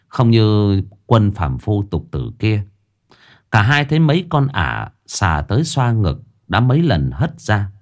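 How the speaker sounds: usual speaking voice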